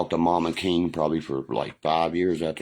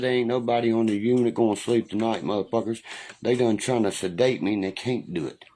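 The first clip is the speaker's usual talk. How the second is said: retold defiant shout; 5 semitones higher than usual. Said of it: "I said".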